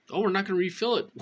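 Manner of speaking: high, fast mocking pharmacist; sing-song sneer at the pharmacy. Mocking the pharmacy that refused her refill.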